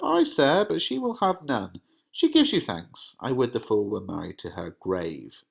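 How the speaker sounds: mother stirring things up, mildly scornful; Lady Capulet's scorn. Acted. Reads Lady Capulet's lines.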